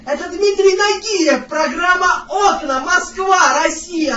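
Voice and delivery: slow, loud showman introduction; TV host announcement. Pretend. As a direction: announce it like a TV presenter. Caller announces TV show grandly. (торжественно, как ведущий)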